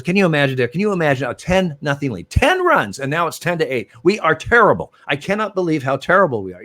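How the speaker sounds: high, loud, exasperated griping at his own team; mock outraged rant. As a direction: play up the disbelief for the cameras. Manager ranting at umpire on field.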